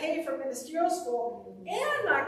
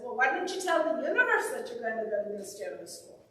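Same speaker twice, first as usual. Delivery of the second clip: lightly attempted Irish accent; faster than usual. Practitioner advising a student, light Irish accent. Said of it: "with her sp-, uh, Irish accent".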